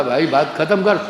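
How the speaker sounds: firm, mildly fed-up appeal; retold exasperated plea. Elder brother wanting it over, exasperated plea. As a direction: try to end the game, insistently.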